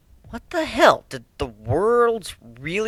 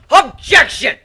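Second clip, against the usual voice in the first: higher, louder outburst; sudden objection; 13 semitones higher, 10 dB louder, slower than usual. Acted. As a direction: cut in sharply. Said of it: "as I had suddenly raised my voice".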